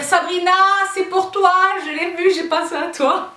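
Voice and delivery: high, eager imitation of fans calling her name; excited fans. Viewers telling Sabrina it's made for her, excited and high. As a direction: gush like an excited fan who found the perfect dress. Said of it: "vous avez été une bonne vingtaine, à me dire".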